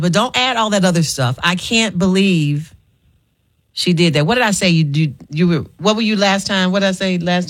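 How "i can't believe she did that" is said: mild demo of shocked disbelief for an actor; shocked and surprised. Shown as a demonstration. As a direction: drag the line out as if stunned. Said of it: "shocked and surprised".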